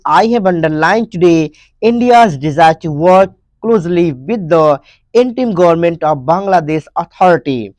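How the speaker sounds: each English word read out slowly and clearly; slow dictation reading. Shown as a demonstration. Teacher reading the headline aloud to students, slow and clear.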